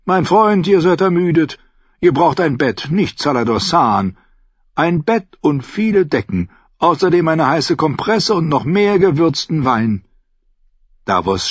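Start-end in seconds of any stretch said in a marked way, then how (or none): 0.0-10.0 higher, louder lilting merchant voice; a sly, friendly trader agreeing; Lyseni captain. Acted. Salladhor answering Davos in his raised merchant voice.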